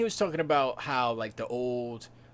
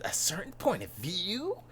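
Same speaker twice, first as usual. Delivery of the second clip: higher, whiny questioning lilt; farm boy attitude; 5 semitones higher, 4 dB quieter than usual. Retold or imitated. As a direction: brat farm boy disbelief, swooping up on the last word. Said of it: "he's got that little foreign, farm boy attitude".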